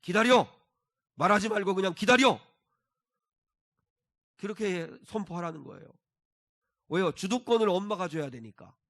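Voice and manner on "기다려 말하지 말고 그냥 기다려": loud, higher-pitched parental order; firm command. Acted. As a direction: lay down the law to a child, loudly and firmly. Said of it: "단호하게 얘기하라고".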